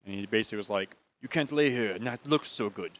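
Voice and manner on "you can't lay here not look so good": lightly done mock German accent. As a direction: imitate a cop's clumsy German-accented English. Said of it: "It's my German accent".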